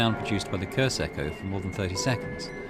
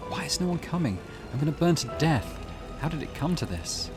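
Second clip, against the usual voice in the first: higher-pitched, distressed pleading; 6 semitones higher than usual. Acted. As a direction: wonder desperately why no help comes. Trapped burning character calls for help.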